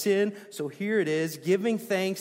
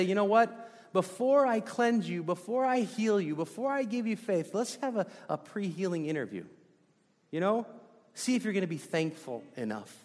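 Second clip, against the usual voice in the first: raised, pushy voice of a fussy interviewer; mock interviewer Jesus; 4 semitones higher, 3 dB louder than usual. Preacher mocking a God who screens people first. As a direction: play a bureaucrat asking for paperwork before healing.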